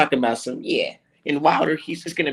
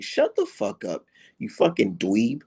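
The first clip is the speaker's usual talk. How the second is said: slow contemptuous put-down; 3 semitones lower, slower than usual. Pretend. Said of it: "Like, seriously".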